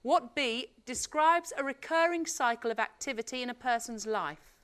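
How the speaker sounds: bright quiz host read; game show host. Acted. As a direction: announce it like a TV quizmaster. Quiz host reading the question.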